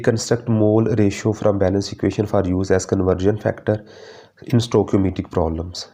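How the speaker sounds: dictating the points very slowly; slow syllabus reading. Acted. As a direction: spell each point out for notes. Reads learning outcome aloud. (धीरे धीरे syllabus पढ़ना)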